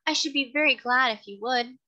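a refined lady coaxing the carter; kind lady. Acted. Lady continues plea.

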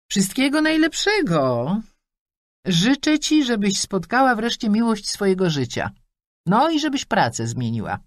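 high, chatty mother rattling off wishes; a pushy mum beaming down the line; mother on the phone. Acted.

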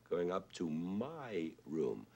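"my" stressed and drawn out. Shown as a demonstration. Pointing out the one odd syllable, long stressed "my". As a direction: lean on "my" in a slow phrase. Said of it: "except for one syllable, which is my".

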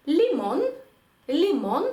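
Spanish «лімон», li-MON; marked-accent stress. Shown as a demonstration. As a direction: stress the last syllable of «лімон». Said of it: "поставити наголос там, де він стоїть".

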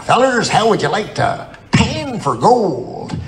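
put-on slow, drawn-out old-timer voice; lightly voiced old prospector inviting kids; a hint of a crusty old miner. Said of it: "pretending to be an old prospector".

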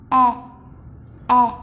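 "E" as an open, flat e, as in "can"; flat e sound. Shown as a demonstration. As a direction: say "e" with a wide open vowel. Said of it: "Âm này là âm e bẹt nhé". (âm "e" bẹt)

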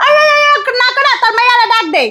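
high, scolding yell; blaring like a radio. Acted. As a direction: blare it out at the husband. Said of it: "Bangla রেডিওর মতো চিল্লাইতেছো কেন".

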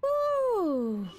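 high, loud triumphant whoop; loud high victory shout; celebratory woo. Real, not acted. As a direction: cheer the narrow win. Celebrates escape.

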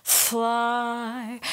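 "Fly" with a milder, shorter F; "Fly" with a moderate F; lighter F. Shown as a demonstration. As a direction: back the F of "Fly" off a little. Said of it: "eighty percent of what you just did for the F".

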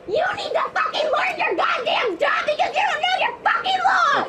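woman shouting at the officer about laws, angry tirade. Real, not acted. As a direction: rant at him at full voice. Woman berating officer during arrest.

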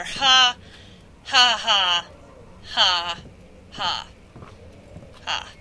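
loud gloating ha ha, fading away; mocking laughter. Real, not acted. Gloating at the monster that fell over, laughing.

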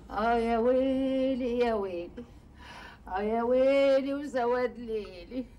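slow, drawn-out wailing; mock lament. Woman wailing slowly over her ruined reputation. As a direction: stretch each cry like a hammed-up mourner.

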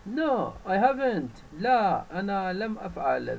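a lightly voiced cross bird refusing; bird's angry no. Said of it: "said the bird angrily". (رفض الطير بغضب خفيف)

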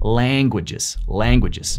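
"languages" with an open, lengthened first vowel as in "family"; exaggerated American a. Shown as a demonstration. Teacher showing how to sound native, exaggerated "languages". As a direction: lean into the a of "languages". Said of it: "exagera ese sonido".

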